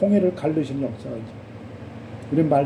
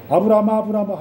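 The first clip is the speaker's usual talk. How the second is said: startled urgent call; 2 semitones higher, 3 dB louder, faster than usual. Acted. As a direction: call out as if startled, to stop someone. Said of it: "하나님이 놀라셔가지고". (놀라서 다급하게 부르듯)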